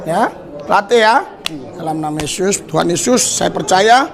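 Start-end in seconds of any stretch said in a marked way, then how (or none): 1.7-4.1 fervent preacher's healing prayer. Acted. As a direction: pray over him with rising force. Healing prayer over a man.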